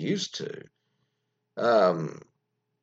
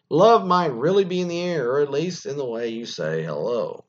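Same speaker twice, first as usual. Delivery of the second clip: starts loud and high, easing off; article read-aloud; 5 semitones higher, 6 dB louder than usual. Acted. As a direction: punch the opening of the copy.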